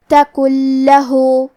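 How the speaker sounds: slow chant, the nun of تکن merged into a doubled lam of لہو; merged without nasalization. Shown as a demonstration. Teacher shows the merging rule, slow chant with doubled lam in تکن لہو. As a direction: recite تکن لہو as "takullahu", no nasal hum. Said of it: "نون کو لام میں ملا کے بغیر غنہ سے".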